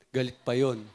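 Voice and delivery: words said through a real chuckle; laughing. Real, not acted. Preacher chuckling at the husband and wife story, laughing. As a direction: laugh as you tell the punchline. Laughs while telling couple's tale.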